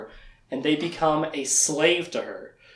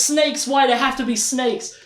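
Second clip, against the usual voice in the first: high-pitched mock whine of dread; mock dismay; 8 semitones higher than usual. Trapped woman faced with snakes, mock dismay. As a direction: imitate someone appalled, voice pitched up. Voicing character who hates snakes.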